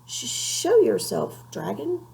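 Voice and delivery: high, slow, stuttering challenge; a scared knight trying to sound brave; nervous stammer. A narrator's reading.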